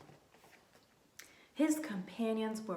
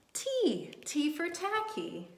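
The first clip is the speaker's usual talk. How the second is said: letter name T; 8 semitones higher, slower than usual. Shown as a demonstration. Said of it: "our letter of the week".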